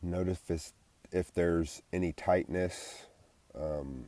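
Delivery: soft, unhurried body-scan guidance; guided meditation. Acted. Guiding listeners from head down to neck, soft meditation voice. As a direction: ease them through each body part, quietly.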